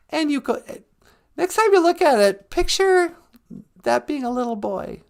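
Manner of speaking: very high, squeaky little character voice; high-voiced sidekick. Sidekick chatting with the host about the show, high character voice. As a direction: play the host's high-pitched little sidekick.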